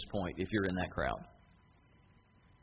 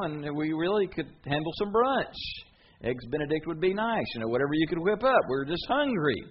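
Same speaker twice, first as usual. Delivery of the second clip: whiny hungry crowd; 2 semitones higher, 4 dB louder than usual. Retold or imitated. The crowd begs Jesus for more food, whiny and pleading. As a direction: beg Jesus for breakfast like a spoiled crowd.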